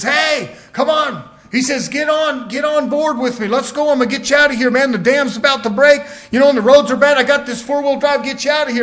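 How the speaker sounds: loud, high urgent call to get in the truck; urgent rescuer. Acted. Rescuer in a four-wheel drive urging the stranded man, loud and urgent. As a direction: shout it like you're pulling him out before the dam breaks.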